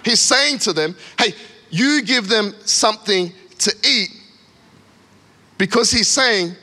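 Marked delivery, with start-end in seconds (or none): 1.2-4.1 measured, mildly reassuring handover; encouraging. Acted. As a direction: hand it over gently, word by word. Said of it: "this in encouragement".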